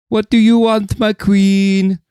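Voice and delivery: high, fawning simp voice; generic simp. Acted. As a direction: pitch it way up like an eager-to-please servant. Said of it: "my generic simp accent".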